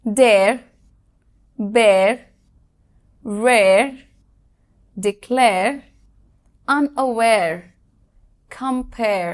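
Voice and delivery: each word said firmly and clearly as a model; spaced model words, a pause after each; model pronunciations. Shown as a demonstration. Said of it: "যেমন".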